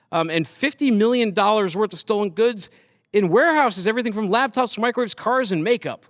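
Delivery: animated headline-reading voice; news read. Real, not acted. Host reading a cargo theft story to his guest, animated news read. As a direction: read out the crime report with punched key words.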